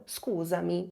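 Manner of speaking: scusami said softly, "skoo-za-mee"; a soft informal Italian apology; gentle "scusami" to someone your own age. Shown as a demonstration. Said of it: "ou se não".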